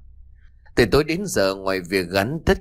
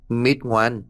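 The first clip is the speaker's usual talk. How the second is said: put-on higher-pitched coaxing of a child; gentle soothing; 4 semitones higher than usual. Cô Lan rocks Mít to sleep, gently coaxing. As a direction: lull a little one with promises. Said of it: "cô Lan nhẹ nhàng ru ngủ".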